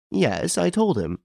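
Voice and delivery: put-on high, slow old lady's reply. A narrator's reading. Old lady answers on telephone.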